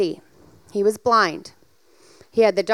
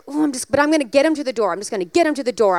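inner monologue; faster than usual. Retold or imitated. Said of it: "I was like".

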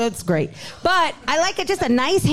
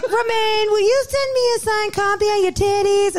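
fan voice; 8 semitones higher than usual. Retold or imitated. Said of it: "they'd be like".

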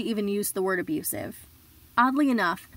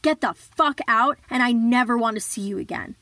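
angry shout; 2 semitones higher, 5 dB louder than usual. Retold or imitated. Telling the boyfriend to get out, angry shout. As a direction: throw him out with a snarled order.

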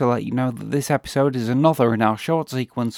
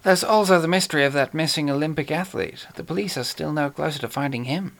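lightly voiced suave villain; a hint of a genteel British horror actor; Peter Cushing voice; 3 semitones higher than usual. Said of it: "Peter Cushing as Major Benedek".

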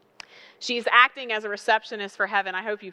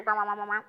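muffled phone voice; 4 dB quieter, much faster than usual. Retold or imitated. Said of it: "And then you hear".

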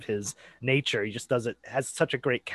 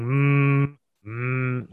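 drawn-out "mm" like a mild moo; mooing hum. Retold or imitated. Co-host imitating the actor in the helmet, mooing hum. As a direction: hum it like a cow, lightly. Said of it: "like, mooing".

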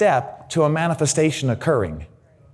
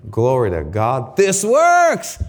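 party praise; slower than usual. Retold or imitated. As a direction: celebrate like throwing a party. Throwing a party over improvement.

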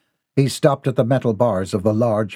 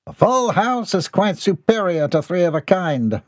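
high-pitched indignant call across the room; bellowing; 7 semitones higher than usual. Acted. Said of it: "Mortimer bellowed from his corner".

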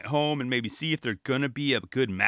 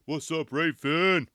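hyped cheer; 6 semitones higher, slower than usual. Retold or imitated. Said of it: "I'm like".

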